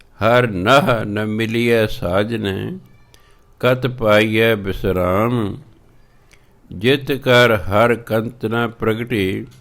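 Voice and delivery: measured, drawn-out scripture reading; slow devotional recitation of Gurbani. Acted. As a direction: read each word slowly and carefully. Recites Gurbani line slowly.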